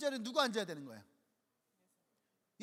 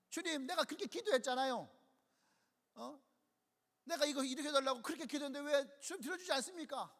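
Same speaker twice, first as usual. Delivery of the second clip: whining complaint to God; 3 semitones higher than usual. Acted. Self-centred believer's complaining prayer.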